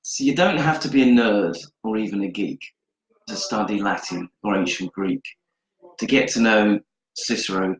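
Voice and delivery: rhythmic spoken verse, each line landing on the rhyme; rhyming recital. Acted. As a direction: deliver it like a short performed poem. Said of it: "can you use your favourite word in a sentence?".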